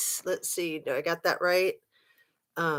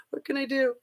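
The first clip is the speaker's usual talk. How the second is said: mock panic; 6 semitones higher, 4 dB quieter than usual. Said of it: "I'm like".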